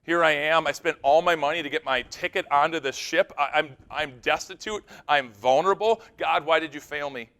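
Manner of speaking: acted indignant complaint; upset, mad at God. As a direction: play out an accusing lament to God. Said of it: "She's mad at God and upset at God".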